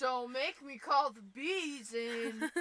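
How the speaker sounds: drawn out playful threat; slow mock threat. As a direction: threaten slowly, hamming it up.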